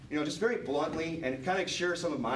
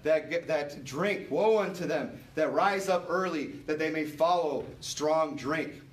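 preaching; 3 semitones higher than usual. Acted. Pastor urging the church to heed the verse, preaching earnestly. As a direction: press the warning, then intone the scripture.

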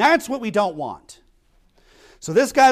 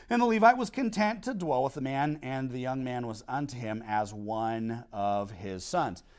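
scripture reading; 7 semitones lower, 7 dB quieter than usual. Acted. Reads the verse aloud.

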